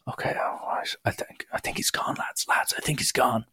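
hushed report to the lads; re-enacted lookout's whisper; cautious whisper. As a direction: whisper it while peeking out.

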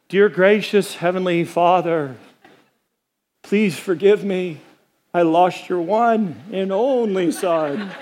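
slow, sheepish mock prayer of a guilty dad. Father apologizing to God in a slow, sheepish mock prayer. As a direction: pray slowly like a father who lost the kid. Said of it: "Imagine that prayer".

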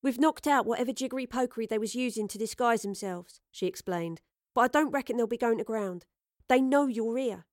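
lightly voiced cockney-ish tough woman; casual, cocky and direct; blunt street-smart woman. Astrid character voice.

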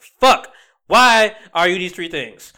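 half-laughing rant about drivers; mock exasperation. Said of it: "I'm like".

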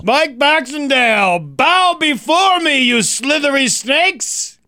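high, slow booming proclamation; booming demon lord. Pretend. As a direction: command the snakes like a dark lord. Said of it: "to make that kind of announcement".

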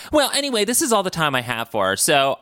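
quick, high, breezy villain exit; hammed-up campy villain. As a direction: toss it off like a camp villain leaving. Mocking Hideki leaving.

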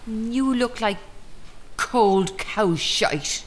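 each word slow and deliberate; slow contempt. Acted. Mistress insulting her old acquaintance, slow and scornful. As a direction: savour the insult.

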